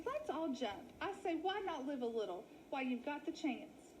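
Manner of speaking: a wolf batting his lashes, playing dainty; wolf in falsetto lady voice. Willie in lady voice.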